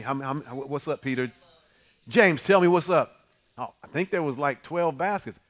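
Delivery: soft, hesitant mumbling disciples; sheepish disciples. Acted. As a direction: answer like a caught-out student.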